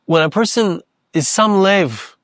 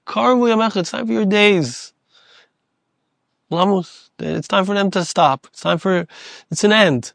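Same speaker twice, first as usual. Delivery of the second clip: gentle telling; 2 semitones higher than usual. Retold or imitated. Loving God gently telling Moshe his days end, kindly. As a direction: break the news to him with love. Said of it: "Hashem is a loving God".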